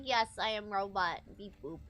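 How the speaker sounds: low, robotic monotone; toy robot voice. Pretend. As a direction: play a clunky toy robot. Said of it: "A robot would be like".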